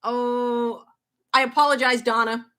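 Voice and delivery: ordinary delivery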